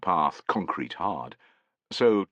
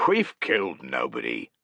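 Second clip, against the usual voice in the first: jovial; 6 semitones lower than usual. A narrator's reading. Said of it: "keeping his tone jovial".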